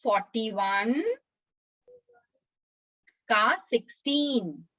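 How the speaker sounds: slow, stretched words settling at the end; slowly, for repeating. Shown as a demonstration. Teacher leads children repeating the memory verse, slowly. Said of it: "मैं धीरे धीरे बोलूंगी".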